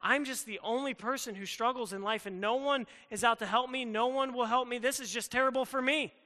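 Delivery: hammed-up pity party voice; whiny self-pity. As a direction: play the sulking victim, building up. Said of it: "And you're like".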